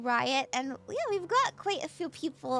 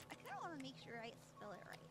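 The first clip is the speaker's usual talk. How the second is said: fast, much softer mumble; muttered under breath; 3 semitones lower, 22 dB quieter, much faster than usual. Shown as a demonstration. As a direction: rush it almost inaudibly. Same line repeated, muttered quickly.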